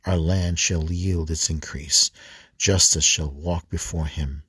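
measured, slightly firm psalm reading; scripture reading. Acted. Preacher reading Psalm eighty-five to the congregation, measured recitation. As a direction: read the psalm aloud with a steady refrain.

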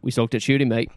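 put-on light New Zealand accent on the quote; Kiwi accent. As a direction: say it like a laid-back Kiwi. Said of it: "what's your Kiwi accent".

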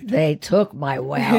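mock grandmother. Grandmother's reply, played for laughs.

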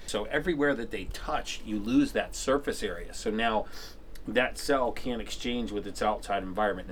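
talking through gauze in mouth; mouth full. Real, not acted. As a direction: numb tongue, mouth stuffed with gauze. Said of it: "'cause I have gauze in my mouth and I sound like a chipmunk 'cause half my tongue is numb".

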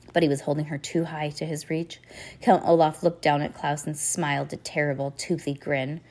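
ordinary delivery, nothing marked

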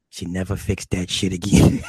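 gloating with a laugh breaking through; chuckling triumph; laughing punchline. Real, not acted. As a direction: laugh as you land the win.

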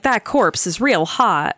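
slow, drawn-out mock admiration; mock leering. Co-host refusing to ogle the dead man, mock leering. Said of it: "I'm not gonna be like".

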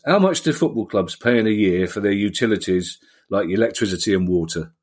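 lightly voiced gruff hill farmer, gruff voice; gruff no-nonsense voice. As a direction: read it as a gruff, blunt farmer. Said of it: "I thought I'd do it in a voice to, you know, distinguish from my own voice".

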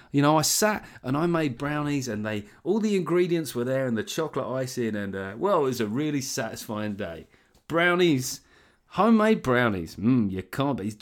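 put-on enthusiasm for a sponsor; mock ad read. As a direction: ham up a homely product testimonial. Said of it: "if I was having to do these reads".

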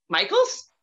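high, loud disbelieving squeak; startled high-pitched Michaels?; shocked question. Retold or imitated. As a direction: gasp out the name in disbelief. Stunned she must see Shawn.

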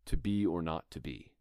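to be or not to be with key words leaned on; a lightly stressed Shakespeare line; stressed line reading. Shown as a demonstration. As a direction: read it with chosen emphasis. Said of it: "So, for example".

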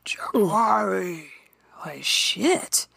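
imitated dry, gravelly whispered growl. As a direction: drag it out, all rasp and air. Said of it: "And it's gravelly. It ain't just deep".

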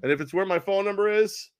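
hammed-up coach at a press conference, pitched high; Udoka. Newly hired coach addressing reporters, in a hammed-up high, brash voice. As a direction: announce it brashly, high and emphatic. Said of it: "like, the f-, press conference".

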